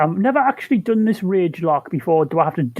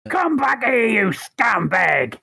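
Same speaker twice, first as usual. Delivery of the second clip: yelled after the runaway; shout; 4 semitones higher, slower than usual. Acted. Cop yells at the fleeing thief. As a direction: shout him down, slower at the end.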